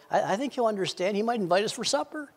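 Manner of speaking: lightly voiced wife. Wife tells husband he might invite us, lightly voiced. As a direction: lightly play a hopeful wife. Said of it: "Becky's like".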